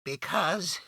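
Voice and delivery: breaking off mid-word, hesitant; a frightened voice stopping short; hesitant stranger. Acted. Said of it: "began the voice, and stopped short".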